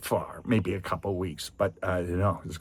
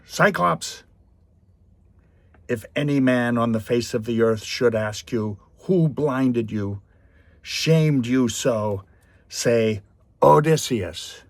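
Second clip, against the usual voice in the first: loud, slow boastful yell at the Cyclops; angry taunt; 4 semitones higher, 5 dB louder than usual. Retold or imitated. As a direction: shout the taunt back across the water, slow and proud. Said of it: "with another burst of anger".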